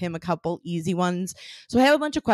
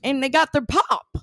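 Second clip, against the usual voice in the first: exaggerated drawling accent, higher and louder; hammed-up Wisconsin sports fan accent, pitched up; put-on accent; 6 semitones higher, 4 dB louder than usual. Podcast host mocking a Wisconsin draft broadcast, hammed-up accent. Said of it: "the thing about my accents".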